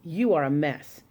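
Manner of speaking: lightly voiced haughty prince; snooty prince. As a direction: look down your nose at her. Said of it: "He looked at her and said".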